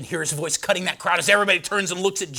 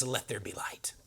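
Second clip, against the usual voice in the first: hushed whispered proclamation; 7 semitones lower, 13 dB quieter than usual. Acted. Preacher quoting God's first words, whispered. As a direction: breathe it out in a whisper.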